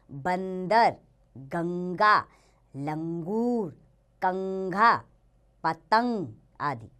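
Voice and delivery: "बंदर" with a clear nasal n before d, said slowly; each example word stressing its nasal sound, "पतंग" nasal ng; nasal anusvar words. Shown as a demonstration. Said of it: "इसका उच्चारण नाक से होता है". (अनुस्वार की नाक वाली ध्वनि साफ़ बोलते हुए)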